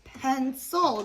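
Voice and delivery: "Pencil" in two separate beats; broken into syllables. Shown as a demonstration. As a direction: split "Pencil" apart: pen, then sil. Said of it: "another word that has two syllables".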